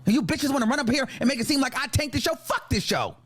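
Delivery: indignant, profanity-fuelled outburst; angry rant. Real, not acted. Ranting at people who blame them for the show, angry. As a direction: lash out at your critics.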